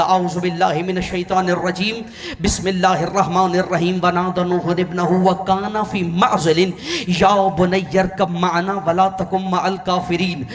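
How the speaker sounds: intoned Arabic scripture recitation, measured and reverent; Quranic recitation. Acted. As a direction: recite the verse with reverent cadence. Preacher recites Quran verses.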